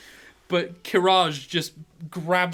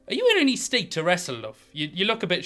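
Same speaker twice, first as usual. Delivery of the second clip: concerned gnomish woman; 3 semitones higher, faster than usual. Acted. Gnomish woman to her drunk opponent, mildly concerned. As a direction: ask quickly, lightly in character.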